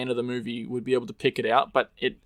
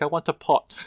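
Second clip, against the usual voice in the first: higher imitated French accent; 4 semitones higher than usual. Imitating how the French chick says it, French accent. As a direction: quote her with a French lilt. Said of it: "The way she's like".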